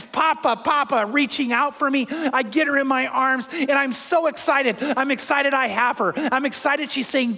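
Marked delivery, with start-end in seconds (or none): 0.0-1.1 high mock toddler call; infectious glee. Granddaughter reaching out for grandpa, imitated infectious glee. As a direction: imitate a little girl calling eagerly. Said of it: "that infectious".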